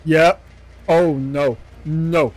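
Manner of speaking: loud, alarmed refusal; alarmed shout. Real, not acted. Player spotting a creepy figure ahead, shouting in alarm. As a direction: call it out loudly as the threat appears.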